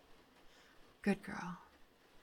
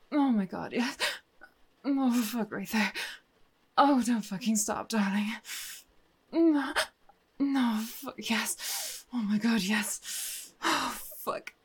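rising to loud, higher cries of release; climax cries; 6 semitones higher, 9 dB louder, slower than usual. Acted. Reaching her climax with the detective, loud cries. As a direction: let go fully, louder and higher each time.

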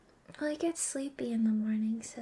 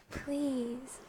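ordinary delivery

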